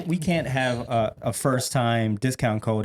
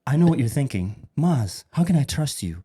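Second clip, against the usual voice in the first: commercial voice. Acted. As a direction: sell it like a late-night ad. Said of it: "freestyle commercial real quick".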